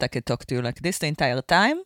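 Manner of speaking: light Israeli accent; a hint of Israeli accent. Shown as a demonstration. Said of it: "Israeli accent".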